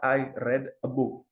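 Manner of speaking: "read" said as red, slowly; past tense red. Shown as a demonstration. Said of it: "yang di bawah".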